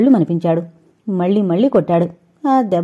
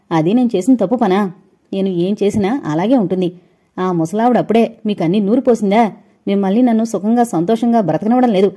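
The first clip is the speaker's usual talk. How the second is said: bitter, heated retort; angry. Acted. Wife railing against her mother-in-law to her husband, angry. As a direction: lash back at him without restraint. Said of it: "అంది కోపంతో ఒళ్ళు మరిచిపోయి".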